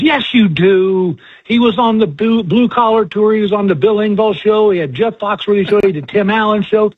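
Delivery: hammed-up gushing fan who won't let go; insistent fan. Counter lady pressing the young girl, mock insistent. Woman insisting, listing his shows.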